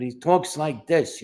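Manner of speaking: slow boxing manager impression; lightly voiced old-school character; Cha Cha. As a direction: draw the words out like a fight manager. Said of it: "he sounded a lot like Sheldon Leonard".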